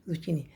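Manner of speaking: ज़ुचीनी with "ch" as in "cheese"; wrong pronunciation of zucchini. Shown as a demonstration. Teacher quotes how others teach it, ज़ुचीनी with "ch". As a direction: say ज़ुचीनी, middle syllable "chee". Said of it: "जबकि वो ज़ुचीनी नहीं होता है".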